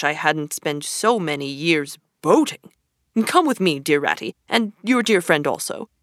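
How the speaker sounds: lightly voiced pompous Toad, lecturing; a hint of a grand, self-important toad; boastful Toad. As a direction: puff up and preach to his friends. Toad's boastful speech to friends.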